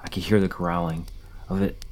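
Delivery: dramatic first-person horror story reading; read-aloud campfire horror tale; story narration. A narrator's reading. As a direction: tell a scary story, stressing key moments.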